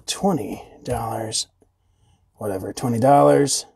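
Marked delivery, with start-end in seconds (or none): 0.1-1.5 whispered aside to himself; whispering. Real, not acted. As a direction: breathe the price under his breath. Muttered price, then said normally.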